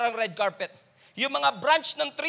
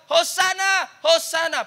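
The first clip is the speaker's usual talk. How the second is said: high, loud jubilant cry; cheering crowd; 6 semitones higher, 5 dB louder, slower than usual. Retold or imitated. Preacher voicing the cheering crowd, joyful shout. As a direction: shout it like a crowd greeting a king. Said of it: "People are crying out".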